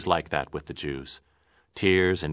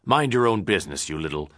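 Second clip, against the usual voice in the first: dismissive. Acted. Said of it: "pushing Leonard away".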